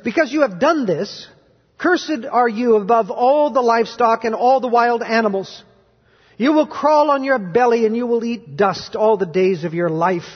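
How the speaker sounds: measured, emphatic Bible reading from the pulpit; solemn public reading of scripture. Acted. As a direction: read out God's judgment with deliberate weight. Reads scripture aloud to the congregation.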